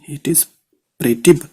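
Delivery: it is imperative read very slowly; teacher showing how to read back shorthand; slow dictation. Shown as a demonstration. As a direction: dictate each word apart. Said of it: "पहले हम पढ़ेंगे कैसे इसको।".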